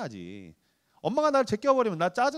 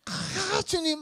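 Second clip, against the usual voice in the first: mock prayer sigh; 11 semitones higher, 4 dB quieter, much slower than usual. Pastor voiced praying.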